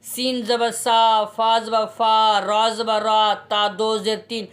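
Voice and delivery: सीन ज़बर सा, फा ज़बर फा, रा ज़बर रा, ता दो ज़ेर तीन each spelled slowly and apart, never blended; showing the wrong way to read; slow separate spelling. Shown as a demonstration. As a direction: spell every letter on its own, unjoined. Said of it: "अब हम इसको यूं नहीं पढ़ेंगे".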